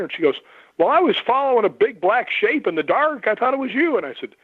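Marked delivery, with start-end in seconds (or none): 0.8-4.0 dawning fear, told a little breathless; retold girl who followed a shadow, uneasy; spooked realisation.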